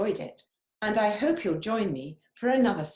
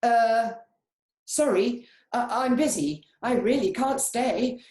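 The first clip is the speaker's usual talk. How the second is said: high, hurried little voice, a bit louder; hurried chameleon; 5 semitones higher, 6 dB louder than usual. Acted. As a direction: rush the excuse out as you back away. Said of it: "Chameleon said as he hurried away".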